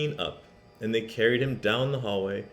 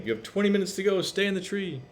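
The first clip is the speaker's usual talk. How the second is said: voicing the principal; 9 semitones higher than usual. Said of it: "they're saying".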